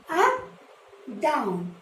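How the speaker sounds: Up rising high then down dropping low. Shown as a demonstration. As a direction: voice climbs on Up and falls on down. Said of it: "One sleeping line".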